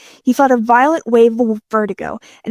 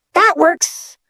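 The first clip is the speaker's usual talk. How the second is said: high, pleased approval; delighted thumbs up; 6 semitones higher than usual. Acted. Pleased by loud music.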